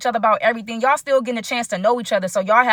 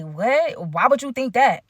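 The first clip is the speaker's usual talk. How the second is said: irritated; slower than usual. Retold or imitated. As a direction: question it with a touch of irritation. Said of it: "Tasha was irritated".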